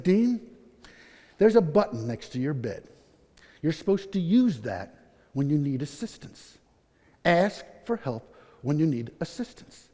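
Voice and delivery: low, soft, measured advice; quiet, earnest counsel with careful pauses; gentle admonishing. Retold or imitated. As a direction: imitate a nurse kindly instructing. Nurse gently advises him, acted.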